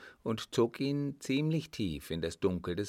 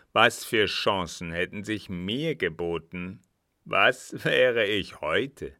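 worked-up boasting; 6 dB louder than usual. Acted. Captain rants over his lost chances.

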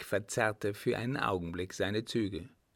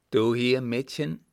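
lightly voiced surprised father, louder opening; surprised shepherd father; 3 semitones higher, 6 dB louder than usual. A narrator's reading. Father finds his daughter here, mildly surprised. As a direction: ask it as a startled father.

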